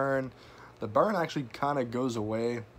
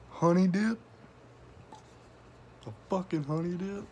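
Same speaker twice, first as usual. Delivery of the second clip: incredulous; 6 semitones higher than usual. Retold or imitated. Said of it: "That's why I said in the fucking beginning".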